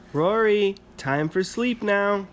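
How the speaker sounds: high, slow call up the stairs. A narrator's reading. Mum calls Rory to bed, high slow call. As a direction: mum calling bedtime. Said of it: "called his mum".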